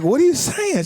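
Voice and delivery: high, loud mock bewilderment; baffled reaction. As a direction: act out a confused dad's reply. Acts his baffled reply to daughter.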